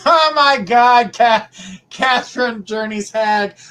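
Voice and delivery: real shock, stretched out; surprised. Real, not acted. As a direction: gasp at the word hag. Reacting to reading "Journey's hag.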